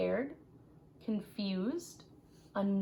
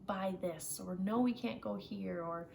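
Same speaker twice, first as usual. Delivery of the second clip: imitating a parent saying no. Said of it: "I would feel angry more often, like".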